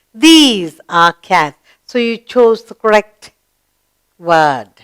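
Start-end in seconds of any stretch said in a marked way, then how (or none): 0.1-1.6 slow, careful repeat; slow model sentence. Shown as a demonstration. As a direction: say it slowly again for the class.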